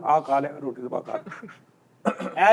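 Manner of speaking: slow, soft, bored reply; weary doctor. Retold or imitated. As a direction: drag it out like a tired doctor.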